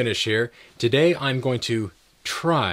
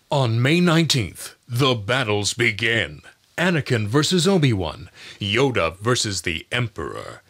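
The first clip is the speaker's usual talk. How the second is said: epic trailer voice. Shown as a demonstration. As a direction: announce the showdown epically. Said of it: "announcer and movie trailer voices".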